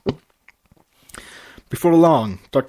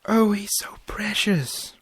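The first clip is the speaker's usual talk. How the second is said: whispered; 9 semitones higher than usual. A narrator's reading. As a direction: breathe it over the sleeping baby. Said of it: "Fluttershy whispered".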